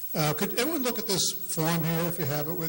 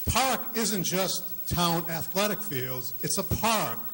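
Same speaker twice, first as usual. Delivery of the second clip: park spoken slowly with weight, ending falling; stress on park; slower than usual. Real, not acted. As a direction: lean on the word park, unhurried. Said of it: "I want to emphasize the word park".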